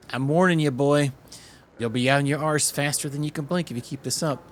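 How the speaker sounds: put-on loud, furious threat to the boy; angry warning. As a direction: warn the boy one last time.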